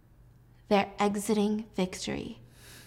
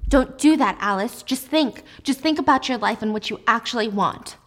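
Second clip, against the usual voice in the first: urgent pleading; 2 semitones higher, 4 dB louder than usual. Acted. Acted quarrel, Jack pressures.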